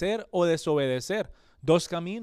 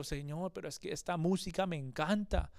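softer excuse; 6 dB quieter than usual. Acted. Believer's excuse voiced to God.

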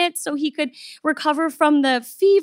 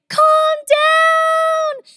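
a hint of a mocking high voice for the staff; lightly mock the staff telling her to calm down; imitating staff; 4 dB louder than usual. Staff telling the panicked owner to calm down, lightly mocked high.

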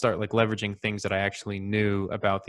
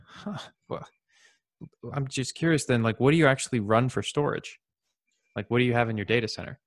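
baffled; 3 semitones higher than usual. Retold or imitated. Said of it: "I would be baffled".

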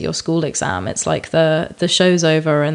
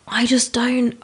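exasperated whisper; 6 semitones higher, slower than usual. Real, not acted. Fed up with green-room banter, whispering. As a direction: drop to a breathy whisper, fed up.

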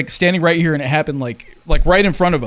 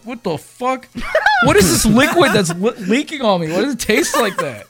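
disgusted shock; 7 semitones higher than usual. Real, not acted. Disgusted by liquid in mask.

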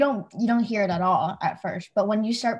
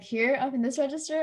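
high-pitched voice; 4 semitones higher than usual. Shown as a demonstration. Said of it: "a more high-pitched voice".

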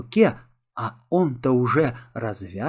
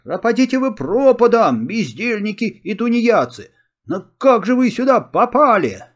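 angry scolding; 7 semitones higher, 4 dB louder than usual. A narrator's reading. Boy scolding the pirates.

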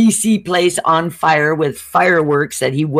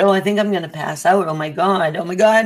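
faking faintness; 2 semitones higher, faster than usual. Pretend. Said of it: "I started faking like I was gonna pass out".

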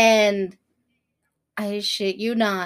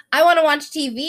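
lightly voiced little kid, pitched up; a hint of an eager child; retold child; 4 semitones higher than usual. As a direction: imitate a kid asking, slightly higher. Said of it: "he's like".

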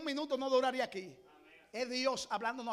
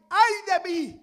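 Isaiah's lament; 5 semitones higher, 10 dB louder, much slower than usual. Acted. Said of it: "Un ay".

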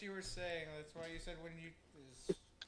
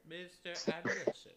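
Agent Smith voice. Retold or imitated. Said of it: "She's going Matrix over here".

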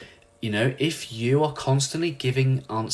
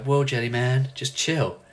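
lightly voiced laid-back turtle; Crush; 4 semitones higher than usual. Turtle calming a panicking dad, laid-back impression. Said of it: "And Crush is like".

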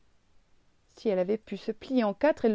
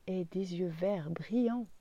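slow soft whisper; 3 semitones lower, 7 dB quieter, slower than usual. A narrator's reading. Narrator describing the boy's eyes, slow whisper. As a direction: breathe the words in awe.

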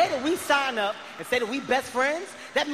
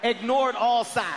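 slow dramatic; slower than usual. Acted.

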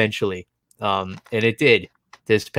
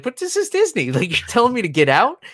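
pitched way up, wide-eyed protest; innocent disbelief; 10 semitones higher than usual. Retold or imitated. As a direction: plead like you can't believe it. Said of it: "it was just so innocent".

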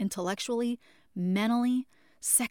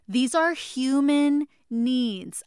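slow, emphatic, louder declaration; loving shout; 3 semitones higher, 5 dB louder, much slower than usual. Real, not acted. Host pressing listeners on human needs, slow loving shout. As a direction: drive each word home with love. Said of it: "I'm screaming at you with love".

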